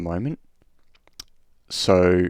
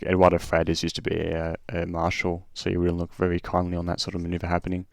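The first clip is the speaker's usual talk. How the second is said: lightly imitated Scottish commentator accent; a hint of a Scottish accent. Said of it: "well, in Scottish accent".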